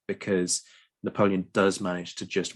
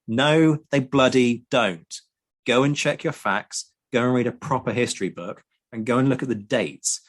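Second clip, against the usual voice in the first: indignant rant. Real, not acted. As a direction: rant at the people who get history wrong. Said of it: "go on a little rant".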